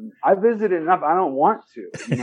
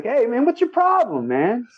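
mock confrontation; 7 semitones higher than usual. Acted challenge to a honking driver.

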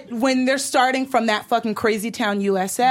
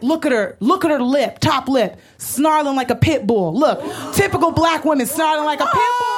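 jeering mockery; 4 semitones higher than usual. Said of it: "he was like".

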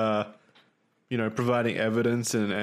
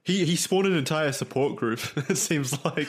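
laughing; 5 semitones higher than usual. Real, not acted. Laughing at a scandal.

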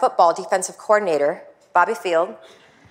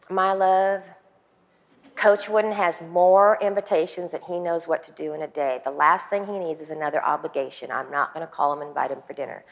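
put-on husband's Southern accent, easing softer toward the end; 3 dB quieter than usual. Wife imitating husband turning down a dinner request, Southern accent. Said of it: "I have to do the Southern accent".

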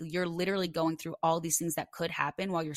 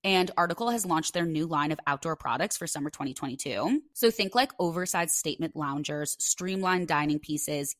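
lively podcast sponsor read. Real, not acted. Host pitching outdoor furniture to listeners, ad read.

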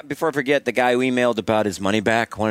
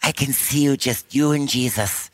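slow, higher mock Canadian prayer; lightly voiced Canadian woman praying; Canadian accent; 5 semitones higher than usual. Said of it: "She said".

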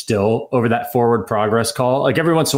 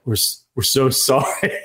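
laughing apology. Retold or imitated. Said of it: "they were just like".

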